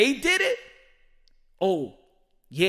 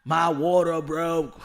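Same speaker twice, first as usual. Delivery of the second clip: slow, louder "My water broke", each word stretched; drawn-out mock panic; 5 dB louder, slower than usual. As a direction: lean into it like a hammed-up man in labor. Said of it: "having that time of the month and wanna have a baby".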